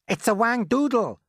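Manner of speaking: high, loud cry of alarm; fire chief's yell. A narrator's reading. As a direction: yell out the monster's name. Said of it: "yelled the head of the fire department".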